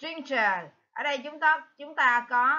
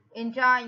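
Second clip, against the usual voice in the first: enjoy stressed on JOY; second-syllable stress; 4 dB louder than usual. Shown as a demonstration. Teacher gives the answer, enjoy stressed on the second syllable. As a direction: hit the last syllable of enjoy. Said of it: "nhấn ở âm thứ hai".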